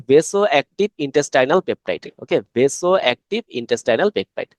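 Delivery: slow spelled-out term. Shown as a demonstration. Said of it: "তো ভিআইপি মানে কি?".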